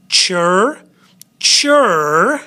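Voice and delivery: "Chur" sounded out slowly as a lone syllable; drawn-out syllable sound. Shown as a demonstration. Teacher showing students the sounds, syllable sounded out. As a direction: say "chur" with a clear ch and a held r. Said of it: "couple different sounds".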